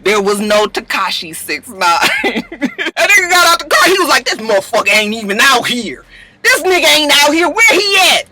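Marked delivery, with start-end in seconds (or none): 4.3-8.3 put-on LA accent climbing to a high call; imitated LA man, indignant and rising; mock LA street accent. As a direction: get worked up in a put-on LA accent. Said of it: "that's my L A nigga accent".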